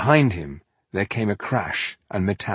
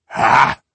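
sharp, breathy ha of triumph; short scoffing laugh of victory; triumphant ha; 9 dB louder than usual. A narrator's reading. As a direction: bark out a gloating ha. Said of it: "said Ironheart triumphantly".

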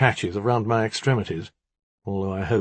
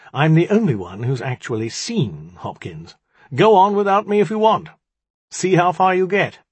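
huffy retort, rising loud and high; growled; 8 semitones higher, 6 dB louder than usual. A narrator's reading. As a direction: snap back, building to an indignant challenge. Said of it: "I growled".

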